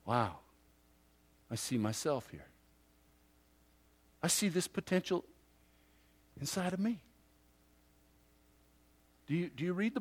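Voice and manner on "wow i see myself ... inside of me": quiet realization. Retold or imitated. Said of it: "pull it way up close and go".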